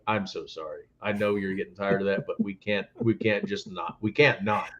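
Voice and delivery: soft, sheepish mock apology. Apologizing to bar staff, soft and sheepish. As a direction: say sorry quietly, half embarrassed. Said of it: "they just apologize to me".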